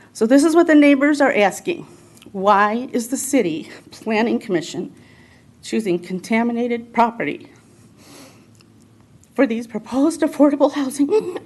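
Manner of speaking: pleading, close to tears; real strain of emotion in the voice; emotional. Real, not acted. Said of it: "I'm sorry for getting so emotional".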